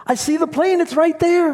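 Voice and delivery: high, urgent pleading at the gate; frantic plea. Retold or imitated. Traveler pleading with the gate agent, high and frantic. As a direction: beg to be let through, voice way up.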